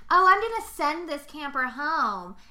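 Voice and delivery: high, loud, slow cheery threat; mock camp counselor. Imitating Angela announcing a camper's exit, sugary. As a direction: sweetly promise to send her home. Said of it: "the shtick now where it's like".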